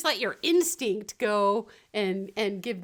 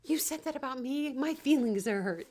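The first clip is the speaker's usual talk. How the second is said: mock hurt; 5 semitones higher than usual. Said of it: "I get more emotional".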